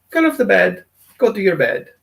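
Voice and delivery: firm, even call-off to the dog; just call him off the bed, steady; calm command. Retold or imitated. Owner calling the obedient dog off the bed, calm firm command. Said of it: "you just call him off".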